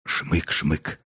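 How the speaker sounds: two quick soft sniffs; sniffing sound. A narrator's reading. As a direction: sniff the air twice. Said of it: "Четвёртый принюхался".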